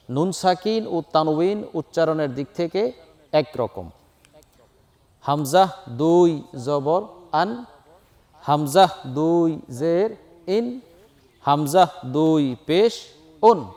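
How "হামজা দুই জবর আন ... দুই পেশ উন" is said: drawn-out, measured letter-by-letter spelling; slow spelling drill. Shown as a demonstration. Teacher spelling hamza with tanween, slow and measured. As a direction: spell it out slowly for learners. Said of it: "তানউইনের উচ্চারণ তাড়াতাড়ি করতে হয়".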